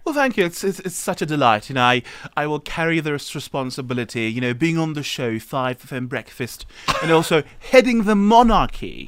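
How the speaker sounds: put-on a shaky King Charles British accent; doing a wobbly King Charles voice. Radio guest plays King Charles in a British accent. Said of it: "what I love about your English accent".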